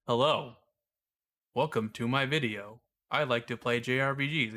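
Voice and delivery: stiff robotic voiceover read. Retold or imitated. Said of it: "You sound like a freaking robot".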